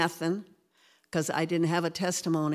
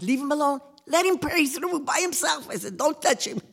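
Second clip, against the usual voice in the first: firm command; 8 semitones higher than usual. Retold or imitated. Retold defending husband.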